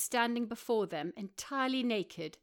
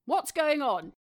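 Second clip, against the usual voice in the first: raised, louder man's voice just woken; startled awake, a bit louder; groggy Rory; 6 semitones higher, 8 dB louder than usual. A narrator's reading.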